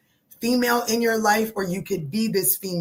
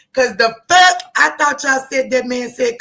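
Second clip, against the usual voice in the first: loud, higher, outraged at the rule; indignant outburst; 4 semitones higher, 8 dB louder than usual. Real, not acted. Reader ranting about church gum rule, loud indignant outburst. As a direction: blow up in disbelief.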